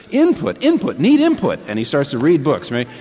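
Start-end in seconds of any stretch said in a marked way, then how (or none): 0.1-1.6 high, loud robot chant; hungry robot demanding input; Number Five begging for input. Retold or imitated. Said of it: "he gets books and he says".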